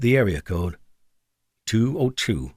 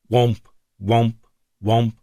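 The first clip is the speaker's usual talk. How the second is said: alarm womp; slower than usual. A narrator's reading. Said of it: "Even the alert sounds wrong".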